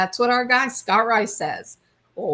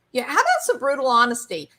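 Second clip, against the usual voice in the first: grinning retort; 4 semitones higher, much faster than usual. Retold or imitated. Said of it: "now he's grinning".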